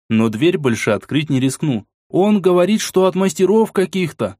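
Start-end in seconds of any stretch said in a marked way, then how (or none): 2.1-4.4 high-pitched nervous call; squeaked report. A narrator's reading. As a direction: pipe up from behind the door. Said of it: "пискнул боец".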